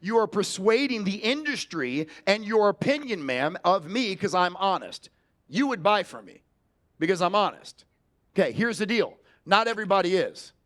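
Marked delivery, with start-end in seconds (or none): 5.5-7.8 firm, falling, sure of itself; certain statement. Shown as a demonstration. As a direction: tell her, don't ask. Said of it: "did I just speak with linguistic certainty".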